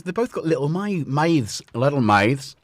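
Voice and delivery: put-on slipping into a Northern Irish accent. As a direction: let the vowels drift playfully into Northern Irish. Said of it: "I don't know why I've gone Northern Irish".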